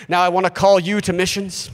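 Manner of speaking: lightly put-on solemn preacher appeal; pastor's altar call. Pastor at a missions meeting calling volunteers, mildly hammed-up solemnity. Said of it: "And the pastor gets up".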